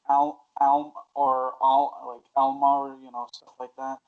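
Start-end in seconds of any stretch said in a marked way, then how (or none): 0.1-2.7 "Alma" tried as AL-muh, flat a; "Alma" broken into a trial "Al-"; English variants. Shown as a demonstration. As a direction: try out English versions of "Alma" piecemeal. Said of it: "why I guess we get the".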